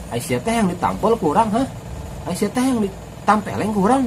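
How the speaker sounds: lightly sing-song Sundanese threat; mock Sundanese anger. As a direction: threaten as if only joking. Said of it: "Kalau orang Sunda kalau marah". (marah ala Sunda yang tidak menakutkan)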